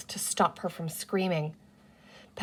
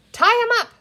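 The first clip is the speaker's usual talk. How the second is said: high, loud snap decision; decisive order; 7 dB louder, faster than usual. A narrator's reading. Girl decides what to do with the captured creature, decisive and loud. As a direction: bark the order briskly. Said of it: "coming to a quick decision".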